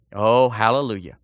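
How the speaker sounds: normal talking voice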